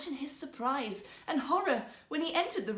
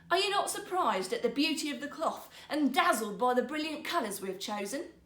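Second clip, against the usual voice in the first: higher, wheedling showman; sly rogue; 4 semitones higher than usual. Acted. Rogue weaver showing the emperor the cloth, wheedling. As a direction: sell the invisible cloth.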